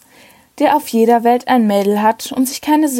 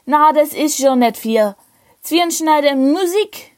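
burping; 5 semitones higher than usual. Acted. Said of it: "rülpste von Schwarzenfeld".

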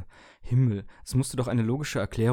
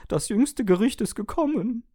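wailing; 12 semitones higher, 7 dB louder than usual. Acted. Toaster wails at its owner's verdict, loud howl. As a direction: howl it like the world is ending.

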